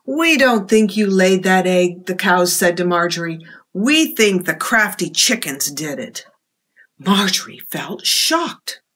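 lively picture-book read-aloud; reading to children. A narrator's reading. Librarian reading a storybook to children, lively. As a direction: tell it to the little ones with expression.

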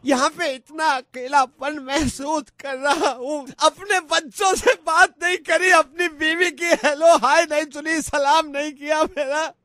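mock-tearful, drawn-out plea; tearful pleading. Lonely husband begging a stranger to talk, tearful pleading. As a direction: plead as if on the edge of crying. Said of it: "आप रोइए मत".

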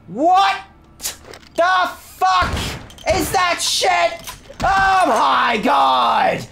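alarmed yell. Real, not acted. Second monster appears.

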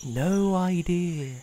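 put-on slow, offhand old spider; grumpy dismissive spider voice; rude old spider. A narrator's reading. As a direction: brush them off rudely. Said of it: "pretty normal for Wanda".

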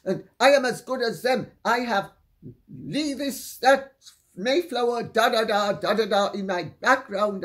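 retold insistence, running into dismissive da-da filler; imitated self-importance. Guest claiming she's as good as the family, mock indignant. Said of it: "her message was".

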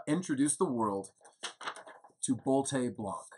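slow, drawn-out announcement of the name; grand unveiling. Acted. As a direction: unveil it slowly, like a big reveal. Unveiling the new wine.

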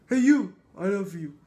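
loud sudden call to a stranger; blurted mock confession. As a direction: shout it out at a random guy, half joking. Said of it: "You just like".

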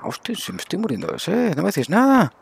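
sudden high-pitched alarm; jugador en pánico. Real, not acted. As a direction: realise you're dying of thirst, panicky. Se da cuenta de que muere de sed. (jugador alarmado de golpe)

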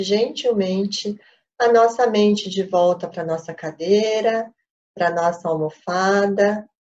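measured instructions with long pauses; unhurried meditation-teacher delivery; guided meditation. Real, not acted. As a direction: guide the group calmly into meditation, phrase by phrase.

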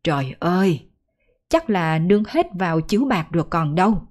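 a mild, tired mother's lament; understated moaning lament. Acted. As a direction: sigh out the worry over the lost cow. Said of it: "lắc đầu mà than vãn".

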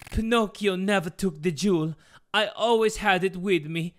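a hint of an accented villain; scheming father explaining himself; lightly put-on villain father voice; lightly voiced Geppetto. Voices Geppetto revealing his scheme.

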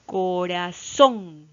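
corazón slow and loud, CO-RA-ZÓN with ZÓN strongest; syllable by syllable. Shown as a demonstration. Teacher separating syllables for children, corazón split and ZÓN stressed. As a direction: draw out corazón, landing hard on ZÓN. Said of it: "están separadas en sílabas para poder entender".

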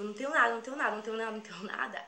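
mild mock yell, repeated in a rush; retold yelling. Girl yelling to robber at bus stop, desperate. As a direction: half-shout a retold desperate plea. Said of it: "já tava gritando".

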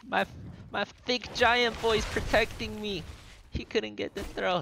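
high, loud, slow gleeful yelling; excited shouting. Real, not acted. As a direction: shout it out in delight. Streamer cheering giant saving him.

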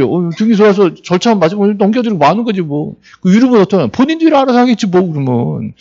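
breezy, offhand mock official; cool indifference. Registrar waving a dispute through, acted cool indifference. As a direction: shrug it off as none of your business. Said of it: "저, 뭐, 쿨해요".

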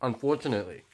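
talking between chews; chewing while talking. Real, not acted. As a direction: mouth partly full. Seen 0: Bite taken just before; lips pursed, jaw working while commenting.

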